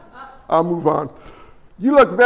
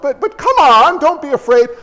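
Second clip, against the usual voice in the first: higher-pitched, glib urging; mock coaxing; 4 semitones higher than usual. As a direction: parody someone brushing off another's fear. Mocks callous advice to abuse victim.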